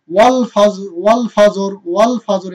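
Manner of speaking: thick final r in ওয়াল ফাজর; heavy R. Shown as a demonstration. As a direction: recite ওয়াল ফাজর firmly, ending on a heavy r. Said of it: "এই রটা মোটা হবে". (ওয়াল ফাজর-এর র মোটা করে)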